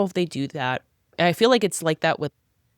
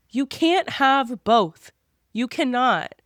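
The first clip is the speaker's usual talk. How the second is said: scolding Bella; 5 semitones higher, slower than usual. Retold or imitated. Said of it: "I'm like".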